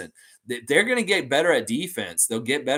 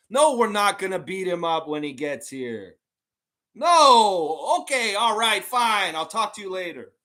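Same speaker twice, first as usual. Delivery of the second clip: high, exasperated mock Philly fan; Random Gamer with Philly accent; 7 semitones higher, 4 dB louder than usual. Fan giving up on the front office, high mock Philly accent. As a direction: give up in a hammed-up Philly huff. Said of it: "do an impression of you with a strong Philly accent".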